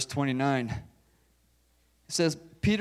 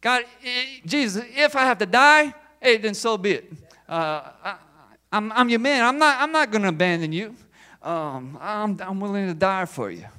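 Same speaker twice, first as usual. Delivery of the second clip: Peter taking it up a notch; 4 semitones higher, 3 dB louder than usual. Retold or imitated. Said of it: "So Peter's like".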